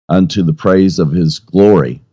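ordinary delivery

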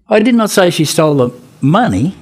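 high lead-in, slight pause, then "money" swooping in pitch; stress on MONEY. Shown as a demonstration. Teacher showing how stress changes meaning, stressing "money". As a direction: save the punch for the last word, "money". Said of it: "say the same words, different ways".

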